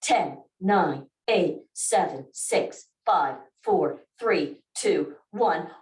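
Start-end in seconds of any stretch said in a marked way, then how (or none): none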